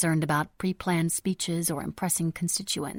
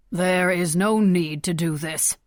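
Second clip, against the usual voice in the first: cool and calm; 6 dB louder, slower than usual. A narrator's reading. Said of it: "his cool and calm political persona taking over".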